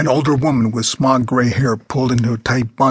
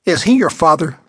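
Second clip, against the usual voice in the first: put-on a pushy old lady, pitched up; bossy old woman; 5 semitones higher, 4 dB louder than usual. A narrator's reading. Old woman ordering a young man out of his seat, pitched up. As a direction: demand it like a rude old woman.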